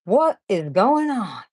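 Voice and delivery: slow, drawn-out puzzled question; a light imitation of Andrew's catchphrase; imitating Andrew. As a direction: stretch it out like Andrew does. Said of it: "Andrew says that a lot".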